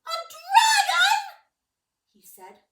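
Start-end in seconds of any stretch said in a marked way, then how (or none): 0.1-1.5 drawn-out, much higher and louder; astonished. Acted. Guy finds a huge dragon reading by the fire, stunned. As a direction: gasp it out in disbelief.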